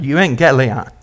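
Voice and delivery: euangelion said yoo-an-gel-ee-on, Greek style; Greek word euangelion. Shown as a demonstration. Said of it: "You like to say that".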